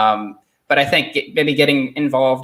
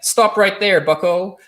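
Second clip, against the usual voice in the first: higher-pitched, lightly voiced mock Jordan Peterson; 6 semitones higher than usual. Host mimics Jordan Peterson stopping him, half-hearted higher mock voice. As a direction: jokingly cut someone off as a stern lecturer. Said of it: "I can't do his accent".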